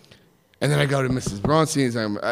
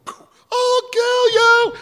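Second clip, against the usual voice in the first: high, slow furious scream; high drawn-out furious threat; murderous scream; 5 dB louder, much slower than usual. Retold or imitated. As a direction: scream it charging across the room. Sister charging at him.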